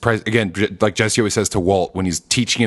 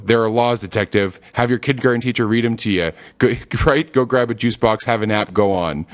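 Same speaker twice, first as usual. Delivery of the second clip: Saul impression. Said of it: "And then he".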